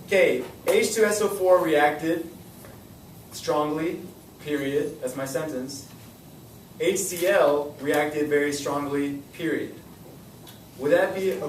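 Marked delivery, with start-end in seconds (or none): 0.7-5.0 slow reworded sentence. Shown as a demonstration. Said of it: "let me say it like this". 6.8-9.7 slow reworded sentence. Shown as a demonstration. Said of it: "let me say it like this".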